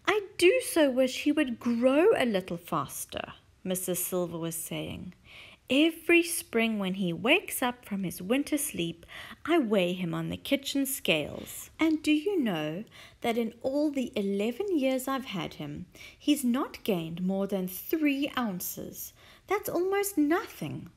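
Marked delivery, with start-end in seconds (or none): 0.1-3.3 wistful Mrs Silver. Acted. Mrs Silver wishing aloud. 5.7-20.9 wistful Mrs Silver. Acted. Mrs Silver explaining weighing.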